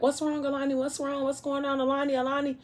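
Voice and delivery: imitating a girl screaming down the phone in panic; mock panicked screaming. Girl on FaceTime hears a crash, frantic high scream. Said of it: "like, screaming".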